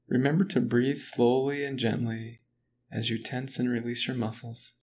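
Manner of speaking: usual speaking voice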